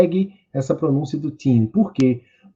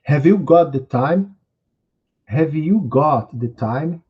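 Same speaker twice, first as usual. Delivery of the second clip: slow model phrase; slower than usual. Shown as a demonstration. Teacher having students repeat, slow careful model. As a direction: Have you got the time? slowly, stressing you. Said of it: "vocês podem ir repetindo comigo".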